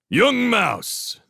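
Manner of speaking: put-on Young stretched high then falling; called out. Clooney hailing Matthias on the wall, high drawn-out call. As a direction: hail him slowly, stressing Young. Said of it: "he called".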